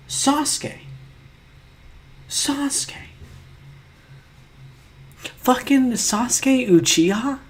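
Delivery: very high, squeaky disbelief; incredulous dismay. Real, not acted. Stunned at being given Sasuke, high incredulous dismay. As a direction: squeak the name, then stretch it out incredulously.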